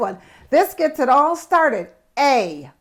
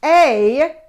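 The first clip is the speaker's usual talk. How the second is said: louder hooting ooh hoo hoo, then apple; thrilled at the juicy apple; excited reveal; 4 semitones higher, 6 dB louder, much slower than usual. Shown as a demonstration. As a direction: build delight to the reveal of apple. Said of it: "Big, juicy".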